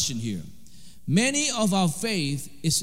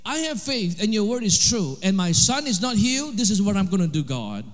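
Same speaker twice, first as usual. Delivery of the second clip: retold daring prayer. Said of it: "He said".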